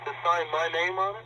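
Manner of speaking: outraged he signed for it; indignant challenge. Real, not acted. Indignant over signed mail.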